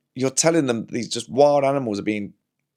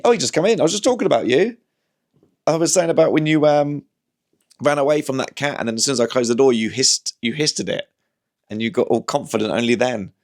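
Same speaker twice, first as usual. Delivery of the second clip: chatty voice for the cat, pitched up; teasing the cat in a raised sing-song; talking to the cat; 3 semitones higher than usual. Acted.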